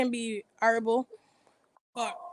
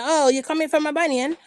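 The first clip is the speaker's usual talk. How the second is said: mock retort; 5 semitones higher, 4 dB louder than usual. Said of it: "I said".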